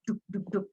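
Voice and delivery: spoken thudding heartbeat imitation; imitated mother's heartbeat. Shown as a demonstration. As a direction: mimic the even thump of a heartbeat. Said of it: "detak jantungnya ibu itu yang".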